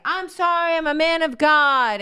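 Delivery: high, loud, overly sorry pleading; mock-sincere apology through the car window; mock pious apology. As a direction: gush out a Christian apology, pitch rising. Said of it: "he's doing his whole".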